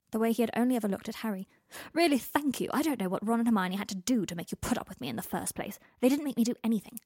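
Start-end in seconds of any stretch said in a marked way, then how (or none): 1.9-5.8 sarcastic. Acted. Draco's sarcastic retort. 6.0-7.0 fast, loud snap; snapped. Acted. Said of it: "Harry snapped".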